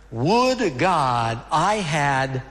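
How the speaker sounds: very slow, drawn-out lament; weeping king's lament. Acted. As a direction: stretch each word in understated grief. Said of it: "as he wept, he said".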